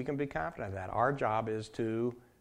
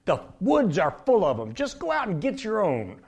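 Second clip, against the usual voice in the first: loud, higher-pitched irritated retort; not too happy; 5 semitones higher, 7 dB louder than usual. Retold or imitated. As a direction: brush off the buddies, annoyed. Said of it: "Bubba's not too happy with him".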